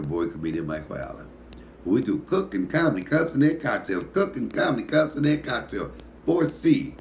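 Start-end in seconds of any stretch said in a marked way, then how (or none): 1.8-6.9 higher, louder show slogan, building to the top; hyped catchphrase. Acted. Host shouts his show's slogan to viewers. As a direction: sell the slogan like a hype host. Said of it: "show catchphrase sign-off".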